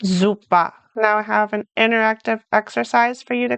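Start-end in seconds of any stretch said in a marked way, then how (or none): 0.0-0.7 "Super" ending in an open A, no R; German "Super" with the final ER turned into A. Shown as a demonstration. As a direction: say "Super" as ZOO-pah, German style. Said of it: "it's more like an A".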